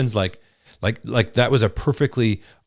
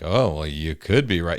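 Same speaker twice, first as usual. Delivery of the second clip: a grudging, sarcastic brush-off; dismissive; 3 semitones lower than usual. Shown as a demonstration. Husband showing the wrong way to concede, dismissively. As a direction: say it like you don't mean it. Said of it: "doing it in such a way that you're not saying it like".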